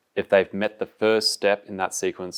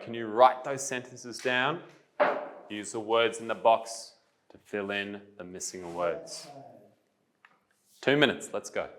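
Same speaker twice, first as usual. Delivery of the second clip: unhurried classroom instructions, softening as they go; calm, slow teacher voice; 4 semitones higher, 5 dB quieter than usual. Real, not acted. Teacher setting the class a writing task, calm and slow. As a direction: give the task gently, with pauses. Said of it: "my tone is calm and my voice is slow".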